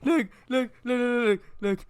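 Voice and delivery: grab their attention eagerly; excited calling out. Real, not acted.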